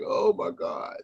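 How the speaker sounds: breathless unvoiced gasp of a quote; mimicking someone whispering in awe; whispered oh my God. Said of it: "It's like".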